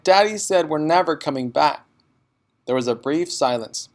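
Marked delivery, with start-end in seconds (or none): 0.0-1.9 put-on upset child.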